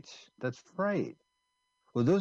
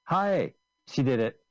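excited impression; 3 semitones higher, 4 dB louder, slower than usual. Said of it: "here's my impression".

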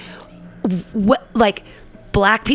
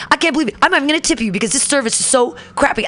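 higher-pitched indignant complaint; imitated yelling; 6 semitones higher, faster than usual. Customer refusing to tip the counter lady, mock yelling. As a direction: mimic an irate customer, mildly heated. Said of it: "he's yelling at her".

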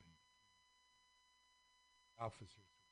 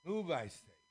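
loud, higher royal shriek; screamed; 6 semitones higher, 5 dB louder than usual. Acted. All the kings screaming at the squares, loud scream. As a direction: scream the order. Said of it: "screamed all the kings".

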